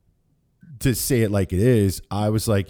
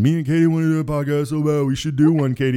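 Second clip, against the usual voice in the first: mock Amy; 5 semitones higher than usual. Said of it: "Amy piped in with one of the comments saying".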